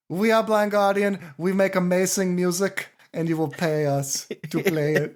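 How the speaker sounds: put-on lightly done German accent, barely shifted from his own voice; a half-hearted German rock star bragging to the crowd; terrible German impression. Podcaster imitating the boastful singer, faint German accent. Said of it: "a terrible German impression".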